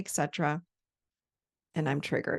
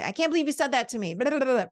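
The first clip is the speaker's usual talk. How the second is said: mock defensive retort; 5 semitones higher, faster than usual. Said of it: "argue with somebody and say".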